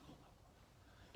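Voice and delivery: breathy, slow, hushed groan; mock the crew's exasperated sigh; groaning workers. Crew members groaning at rewashing a truck, exasperated. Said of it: "They're like".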